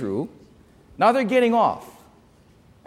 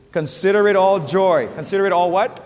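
loud reading aloud; 4 dB louder than usual. Shown as a demonstration. Pastor leading the church in a loud reading. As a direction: read it out strongly with the congregation. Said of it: "Read with me ... Ready? Go".

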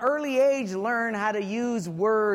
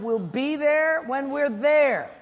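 laughing dad; 4 semitones higher, 4 dB louder, slower than usual. Retold or imitated. Dad losing patience, laughing.

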